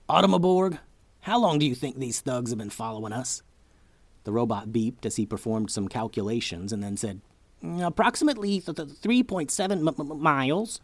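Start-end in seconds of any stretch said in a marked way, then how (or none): 0.1-3.4 robot voice. Acted. Robot character speaks in story. 7.6-10.8 high glitchy robot, stuttering words; robot voice that skips like a glitch. Acted.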